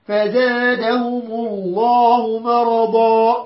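slow measured tajweed chant; Quran recitation. Shown as a demonstration. Teacher recites the verse to the class in slow tajweed. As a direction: draw each word out like tilawa.

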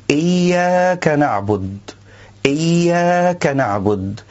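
"إياك نعبد" as iyya kana'bud, with the kaf joined to "نعبد"; the wrongly split "إياك". Shown as a demonstration. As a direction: break after iyya and glue the kaf to "نعبد". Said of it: "فصل إيا عن الكاف".

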